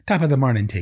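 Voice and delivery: hammed-up Irish greeting with a laugh; joke Irish accent. Joking that his accent turns Irish, playful Irish accent. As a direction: toss out a laughing mock-Irish catchphrase. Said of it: "I always turn into an Irish guy".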